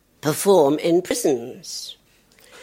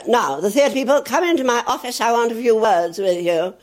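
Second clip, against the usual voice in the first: ex-army governor; 5 semitones higher than usual. Retold or imitated. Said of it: "he was an ex-army type".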